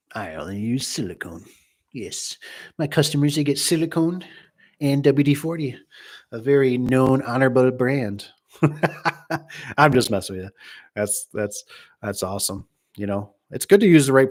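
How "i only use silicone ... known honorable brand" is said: teasing, proud pitch voice for the brand line; lightly lampoon the salesman; a hint of a boastful salesman; mock Mister Ben. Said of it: "Mister Ben, talk about".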